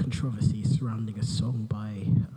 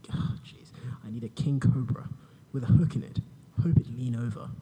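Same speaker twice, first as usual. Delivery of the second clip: boring voice parody; 3 semitones higher than usual. Pretend. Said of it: "in my boring voice".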